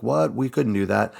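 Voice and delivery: high, startled disbelief; baffled disciples. Retold or imitated. Disciples baffled that Jesus just said come out, surprised. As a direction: react like you can't believe it.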